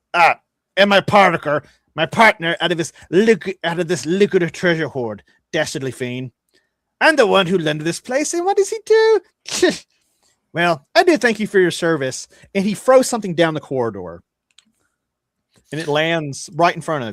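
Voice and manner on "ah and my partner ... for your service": treacherous gnome voice, fully in character. Voicing a gnome who thanks the party after being double-crossed: voicing a gnome character. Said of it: "the gnome says".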